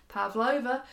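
attempted New Zealand accent. Shown as a demonstration. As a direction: try "Pavlova" in a Kiwi accent. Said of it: "a New Zealand accent".

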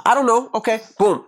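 husband baffled by hair instructions; high exasperated aside. Real, not acted.

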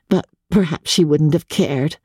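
light touch of May, airy and a little catty; lightly voiced young wife. May speaks to her husband.

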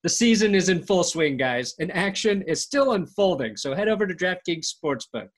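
upbeat sponsor read. Acted. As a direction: sell it like a radio spot. Sponsor ad read mid-podcast.

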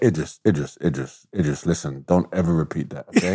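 put-on a light South African accent, hushed and confiding. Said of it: "My agent is South African".

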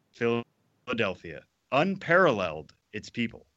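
swelling, earnest declaration; fervent poem reading. Acted. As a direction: proclaim it with mock passion. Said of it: "the appropriate level of fervor".

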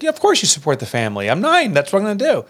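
put-on high-pitched, matter-of-fact child; lightly mimicked little girl; imitating nine-year-old daughter. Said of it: "She's like".

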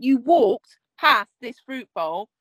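deadly serious, lightly put on; retold serious lecture. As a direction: imitate a husband earnestly lecturing the dog. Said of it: "he's, like, proper serious".

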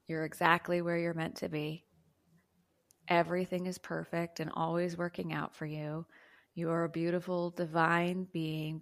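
soft, tender reading of a message; soft soothing message read; gentle reading. Retold or imitated. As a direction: read it like a loving blessing. Reading channeled message back softly.

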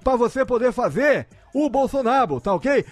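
talking with the tongue held down; squeezed throat, held tongue; tongue held, throat tight. Shown as a demonstration. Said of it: "Segurando a língua aqui e botando essa garganta meio fechadinha".

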